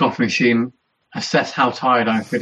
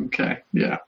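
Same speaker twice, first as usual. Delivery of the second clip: breathy unvoiced whisper; whispered aside; 6 dB quieter than usual. Angela eyeing the shower curtain, whispered resigned aside. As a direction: mutter it under your breath to yourself. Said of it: "be like".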